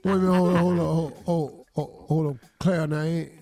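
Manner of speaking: berserk rage. Acted. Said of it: "you have got to stop yelling".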